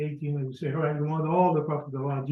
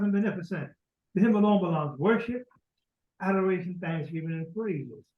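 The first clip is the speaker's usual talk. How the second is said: recited prayer; 3 semitones higher than usual. Acted.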